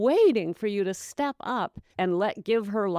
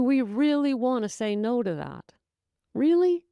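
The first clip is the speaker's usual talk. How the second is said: mock disbelief, pitched way up; incredulous; 6 semitones higher than usual. Real, not acted. Incredulous rhetorical question.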